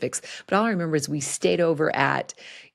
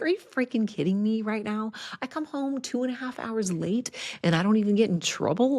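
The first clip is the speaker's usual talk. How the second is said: higher-pitched incredulous complaint; hammed-up outrage; mock upset disbelief; 6 semitones higher than usual. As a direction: protest it like an indignant teen. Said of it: "I was totally upset".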